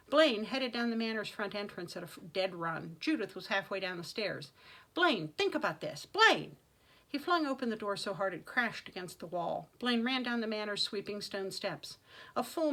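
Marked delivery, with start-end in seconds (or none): 4.9-6.6 plead, then cry out his name; urgent plea. A narrator's reading. Aunt calling after Blaine as he runs off, urgent shout.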